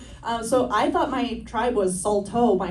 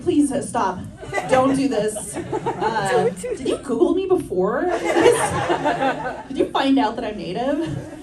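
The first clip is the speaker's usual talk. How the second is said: 1 laughing plea; 4 semitones higher than usual. Retold or imitated. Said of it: "And I was like".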